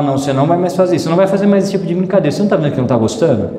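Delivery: quick, firm scolding of a bully; firm rebuke. Shown as a demonstration. Pastor showing parents how to confront a bully, fast and firm. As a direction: stop the bully right now, fast. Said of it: "A gente precisa ter coragem de falar".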